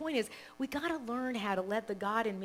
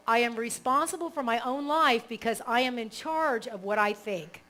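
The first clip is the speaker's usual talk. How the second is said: affirmation read; 4 dB louder than usual. Shown as a demonstration. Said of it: "Okay, so".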